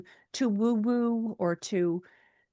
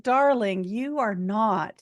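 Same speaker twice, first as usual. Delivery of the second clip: reassuring psychic; 2 semitones higher, slower than usual. Retold or imitated. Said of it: "the clairvoyant psychic's like".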